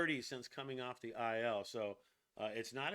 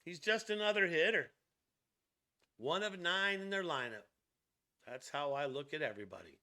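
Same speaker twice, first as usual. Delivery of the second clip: lightly voiced ballplayer giving a post-game quote; David Peterson. Host acting out pitcher's words on Shohei, lightly voiced impression. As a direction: lightly act out a pitcher's statement. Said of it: "here's what Peterson said".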